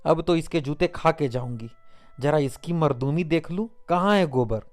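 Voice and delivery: rising into a high, loud wail; mother wailing for her son's help; anguished lament. A narrator's reading. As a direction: cry out in despair to your son. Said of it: "आर्त स्वर में बोली".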